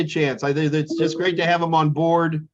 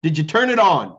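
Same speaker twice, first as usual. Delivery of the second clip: teasing mentor; 4 semitones higher, 3 dB louder than usual. Retold or imitated. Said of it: "she'd be like".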